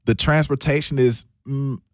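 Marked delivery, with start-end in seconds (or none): 1.5-1.8 soft, hedging mm; reluctant, quiet "mm"; hesitant mm. Real, not acted. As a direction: hum softly before a careful word. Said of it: "I'm using a lot of mms".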